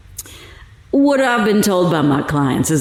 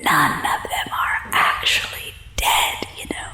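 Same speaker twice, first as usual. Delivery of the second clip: conspiratorial whisper, soft and close; 3 semitones lower, 6 dB quieter than usual. Acted. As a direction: let him in on a secret, hushed. Prisoner confiding secrets to reporter.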